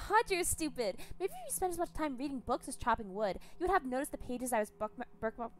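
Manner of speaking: high, loud contemptuous scolding; sneering madwoman. Acted. Captor mocking Gregor's ignorance, high sneering voice. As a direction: talk down to him like an idiot.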